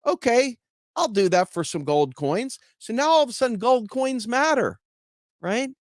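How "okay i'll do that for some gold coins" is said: a hint of a sold peasant; mock convinced. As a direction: sound suddenly persuaded. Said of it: "the guy goes".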